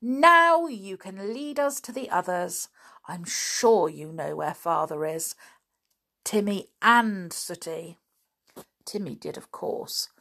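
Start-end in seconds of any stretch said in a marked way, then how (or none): 0.0-8.0 affectionate. Acted. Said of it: "said George happily".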